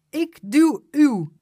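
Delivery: put-on high, loud, slow child voice; eager child offering to push.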